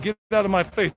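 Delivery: a hint of a brusque Brooklyn pigeon; talking pigeon. Vlogger speaks for a pigeon, lightly put-on tough voice. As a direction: lightly voice a pigeon telling someone off. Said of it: "And this pigeon said".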